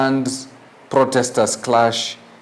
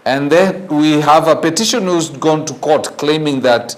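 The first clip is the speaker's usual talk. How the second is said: normal talking voice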